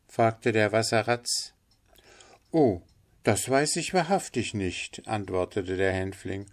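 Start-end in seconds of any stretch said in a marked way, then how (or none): 2.5-5.1 high little bird voice; indifferent linnet. Acted. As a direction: shrug it off in a higher voice. Figure of the linnet. (gleichgültiger Hänfling mit hoher Stimme)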